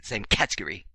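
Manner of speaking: mock British pronunciation of category; fake British accent. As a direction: put on a playful British accent. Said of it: "throw my fake British accent".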